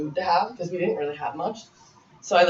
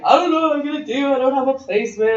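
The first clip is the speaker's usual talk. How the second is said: much higher, louder voice, imitating crying; mock tearful wail, pitched way up; retold bawling; 9 semitones higher, 4 dB louder than usual. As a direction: replay the panic of sobbing with no placement. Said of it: "And I was bawling".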